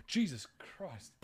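hushed, slow re-enacted gasp through a laugh; scared gasp. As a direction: replay the fright, laughing at it. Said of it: "pretty manly scared voice".

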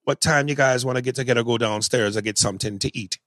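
casual Jamaican accent. Shown as a demonstration. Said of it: "I'm not the best Jamaican accent".

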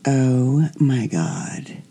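hushed, awed whisper of delight; breathless whisper. Retold or imitated. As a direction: whisper it like a guilty thrill. Thrilled by his violent outburst.

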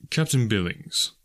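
slow, cool, unhurried drawl. Acted. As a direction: draw out his name with disdain. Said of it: "he drawled finally".

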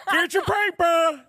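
high, slow cartoon dad voice, laughing; Peter Griffin. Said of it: "Now I just sound like Peter Griffin".

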